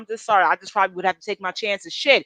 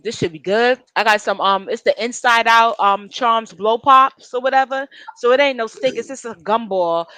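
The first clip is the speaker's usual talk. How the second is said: talking around a wad of gum; chewing while talking. Real, not acted. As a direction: chew gum as you speak. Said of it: "Sorry, I'm chewing my gum".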